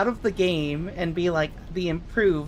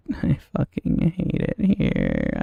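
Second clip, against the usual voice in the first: 1 low drawn-out mock voice; slower than usual. Repeated in altered voice.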